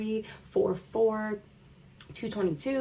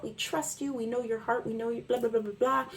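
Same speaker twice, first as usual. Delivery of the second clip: mock flatterers; 3 semitones higher, faster than usual. Mimicking people gassing you up, mild mock praise. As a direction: brush off the flattery mockingly. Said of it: "saying that you're this".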